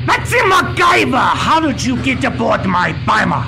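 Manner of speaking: shouted villain's outrage; hammy bad-guy surprise; cartoon villain.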